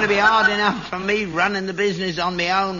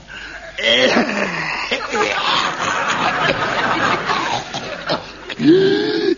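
hacking cough; 5 semitones higher than usual. Acted. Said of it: "That's a cough".

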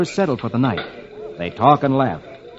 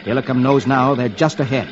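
serious adventure storytelling; dramatic narration; 2 semitones lower than usual. A narrator's reading. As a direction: narrate the chase gravely.

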